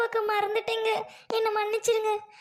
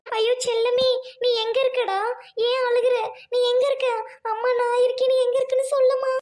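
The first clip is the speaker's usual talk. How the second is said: higher and louder, frantic calls; anxious calling out; 4 semitones higher, 5 dB louder than usual. Acted. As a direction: call out fast to find the crying child. Searching, calling out to child. (பதட்டமாக குழந்தையைக் கூவி அழைத்தல்)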